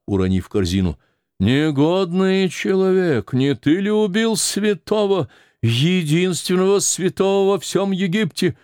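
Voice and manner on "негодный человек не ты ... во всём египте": accusing. Acted. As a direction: denounce him as a murderer. Старуха обвиняет убийцу. (высокое, медленное обвинение старухи)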